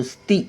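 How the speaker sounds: स्ति as one short syllable; said quickly. Shown as a demonstration. Teacher showing the short vowel, a quick स्ति. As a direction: keep the vowel of स्ति brief. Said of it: "उच्चार पटकन होतो".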